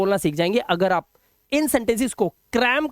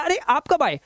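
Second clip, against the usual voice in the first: higher, a mock surprised greeting; pleasantly surprised; 6 semitones higher than usual. Someone arrives suddenly, greeting them with light surprise. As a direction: act as if someone just walked in unexpectedly. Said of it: "कोई आ गया अचानक".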